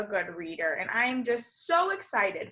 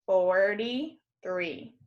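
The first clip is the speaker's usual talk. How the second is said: slow counting reveal; 5 semitones lower, slower than usual. Shown as a demonstration. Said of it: "I have three single pencils".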